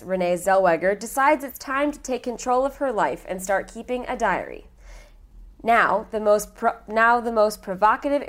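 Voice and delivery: measured synopsis narration; recap read-aloud. Acted. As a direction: read it out like a back-cover summary. Reads a movie recap aloud.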